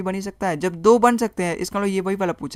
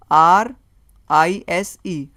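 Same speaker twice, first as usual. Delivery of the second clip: slow, punched letters, the first one louder; spelled out letter by letter; 8 dB louder, much slower than usual. Shown as a demonstration. Teacher spelling the word for students, letter by letter and slowly.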